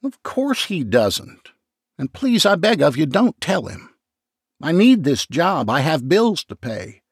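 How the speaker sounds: high, begging voice; mild hammed-up sobbing plea; pleading, near tears. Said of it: "McCracken sobbed louder".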